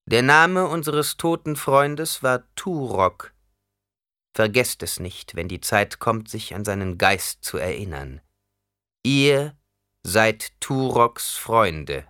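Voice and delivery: slow ceremonial chieftain voice; grave, drawn-out tribute to the dead; Stilgar. Acted. Stilgar's funeral words.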